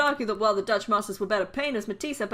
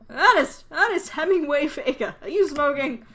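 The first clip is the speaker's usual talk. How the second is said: raised, higher voice calling out sharply; scolding parent; 5 semitones higher, 6 dB louder than usual. Acted. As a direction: call your son out by full name. Parent calling out misbehaving son.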